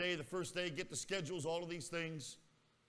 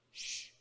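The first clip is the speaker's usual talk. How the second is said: retold shushing. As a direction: imitate a restrained shush. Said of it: "he turned around and he went".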